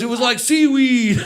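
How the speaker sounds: slow drawn-out seaweed; slow stoner. Retold or imitated. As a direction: stretch it out slowly. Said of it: "He goes".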